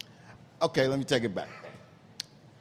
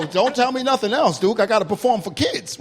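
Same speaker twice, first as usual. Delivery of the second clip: frantic mock plea; 6 semitones higher, 4 dB louder than usual. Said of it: "I said".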